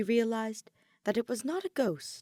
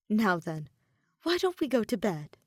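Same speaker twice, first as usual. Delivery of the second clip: gentle suggestion; 3 dB louder than usual. Acted. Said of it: "asked Edelgard".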